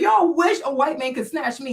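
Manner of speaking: ordinary delivery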